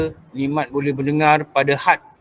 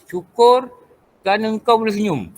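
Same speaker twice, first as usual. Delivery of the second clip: higher-pitched, lightly imitated motivator; motivational speaker; 5 semitones higher than usual. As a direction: pitch it up like a motivator, pausing after the first word. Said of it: "macam ahli motivasi katalah". (gaya ahli motivasi)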